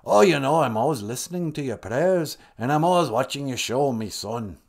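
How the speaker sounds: lightly put-on accent; mild mock accent for a deity; Kichimanadu. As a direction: speak as a fatherly god with a comic accent. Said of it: "not sure why he has that accent".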